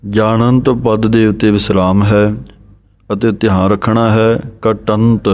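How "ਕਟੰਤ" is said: ਕਟੰਤ with a firm retroflex ਟ, katant; model pronunciation. Shown as a demonstration. Teacher models katant for students, clear and careful. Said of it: "ਇਸ ਤਰ੍ਹਾਂ ਬੋਲਣਾ ਹੈ".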